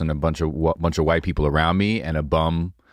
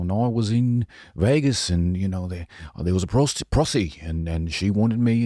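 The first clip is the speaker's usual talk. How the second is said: put-on Australian accent. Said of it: "this one Australian was telling a story".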